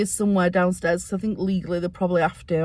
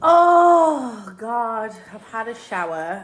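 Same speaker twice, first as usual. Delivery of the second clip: tearful. Real, not acted. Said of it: "cry heard, far".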